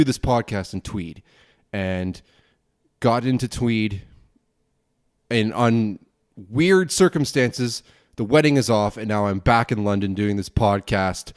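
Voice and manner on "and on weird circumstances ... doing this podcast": ordinary talk, nothing marked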